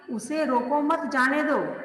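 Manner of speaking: slow "उसे रोको मत, जाने दो"; group "मत" with "रोको", then "जाने दो"; "उसे रोको मत" falls before "जाने दो"; comma after मत. Shown as a demonstration. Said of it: "मत के बाद लगा हुआ है".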